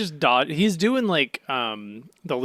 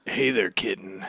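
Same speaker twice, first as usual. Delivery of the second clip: flirty Sanji; 2 semitones lower, 3 dB louder than usual. Retold or imitated. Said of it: "and just goes".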